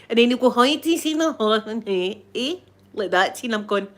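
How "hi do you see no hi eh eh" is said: imitating a singsong northern Scottish accent. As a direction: garble it with a northern Scottish lilt. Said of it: "sound as if they're singing".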